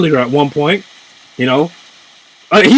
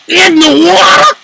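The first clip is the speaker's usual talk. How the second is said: slow, high, louder echo of "water"; slow echoed disbelief; 10 semitones higher, 5 dB louder, slower than usual. Real, not acted. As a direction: stretch "In the water?" out in amazement. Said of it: "Did you see him knock that Pikachu in the water?".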